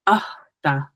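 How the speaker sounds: "ah, the" with a breathy catch; Mohawk word for shoe. Shown as a demonstration. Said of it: "the word for shoe is".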